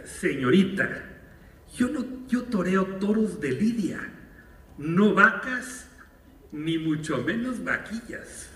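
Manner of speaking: a touch of offended comedian; exasperated retort. Retold or imitated. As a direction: cut her down with indignant dignity. Cantinflas snaps back exasperated.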